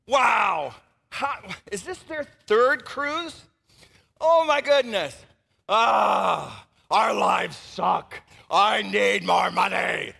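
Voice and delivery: mock jealous wail at friends' cruises; loud hammed-up envy, dragged out; whiny mock envy, half-shouted; envious Instagram scroller. Voicing envious scroller, exaggerated.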